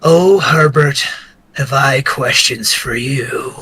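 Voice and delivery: flat, slow monotone delivery; deadpan, no inflection, slow. Acted. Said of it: "in a very, like, monotone voice".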